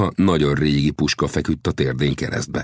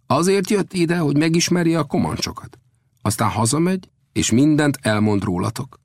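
animated, high-pitched storyteller; Old Death introducing; 7 semitones higher than usual. Acted. Old Death presents the traveller to the chief, animated. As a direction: introduce him grandly, pitched up.

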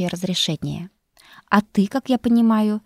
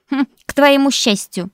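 a grumpy retort, higher and louder; grumbling; 8 semitones higher, 8 dB louder than usual. Acted. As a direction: grumble it back at him. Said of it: "проворчала хранительница факультета".

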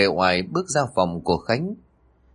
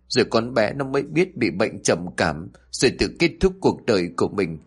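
1 bitter sarcasm; 3 semitones higher than usual. Acted. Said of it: "Bà cười nhạt rồi nói".

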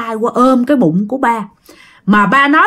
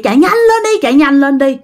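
high, urgent ghost woman; imitated ghost voice; 3 semitones higher than usual. Dad retelling the ghost's command, high mimicked voice. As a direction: mimic the eerie voice, pitched up. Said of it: "nghe cái giọng nói vậy đó".

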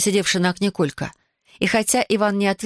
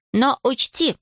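higher-pitched warning; raised voice; 7 semitones higher, slower than usual. A narrator's reading. Аделаида warns the lazy Иван, raised voice. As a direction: lift the voice to warn. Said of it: "повысила она голос".

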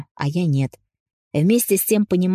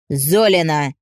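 sharp loud call; harsh barking command; 4 dB louder, slower than usual. Acted. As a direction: bark the name from the doorway. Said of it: "с порога рявкнул он".

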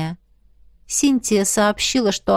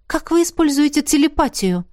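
higher, surprised asking; surprised question; 6 semitones higher than usual. A narrator's reading. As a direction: ask in wonder. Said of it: "удивлённо спросила". (удивлённый вопрос)

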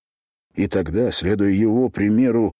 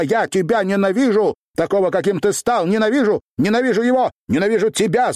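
screamed hatred; 11 semitones higher than usual. A narrator's reading. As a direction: keep screaming it, each time higher. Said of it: "Задохнувшись собственными криками".

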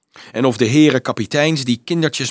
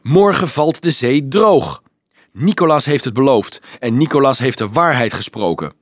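put-on insistent boy's cry, raised at first; raised, protesting voice; calling out; 2 semitones higher, 4 dB louder than usual. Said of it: "riep een grote jongen".

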